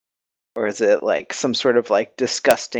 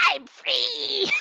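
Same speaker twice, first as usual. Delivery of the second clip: high squeal of freedom; 7 dB quieter than usual. Acted. Monster escaping acted.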